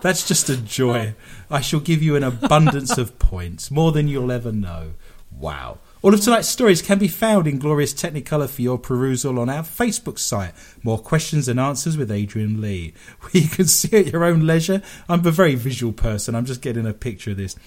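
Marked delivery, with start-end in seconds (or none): 6.0-14.8 brisk, emphatic announcer read; radio plug. Acted. Radio host tells listeners where to find stories, announcer voice. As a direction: plug the show like a radio presenter.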